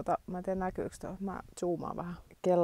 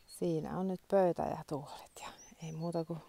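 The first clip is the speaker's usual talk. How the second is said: whisper; 6 dB quieter than usual. Real, not acted. Quiet whispered aside to camera.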